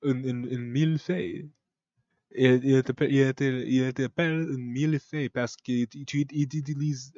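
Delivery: halting attempt at French accent; mock French. Shown as a demonstration. Explaining the cake in French, halting mock French. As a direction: stumble through some French. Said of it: "that's how I speak French".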